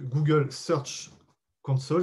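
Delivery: Google Search Console said slowly with an English accent. Real, not acted. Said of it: "mon super accent anglais".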